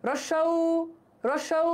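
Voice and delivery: রস্যউ with lips made round; rounded vowel demo. Shown as a demonstration. Teacher repeats রস্যউ to show round lips. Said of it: "দেখো রস্যউ".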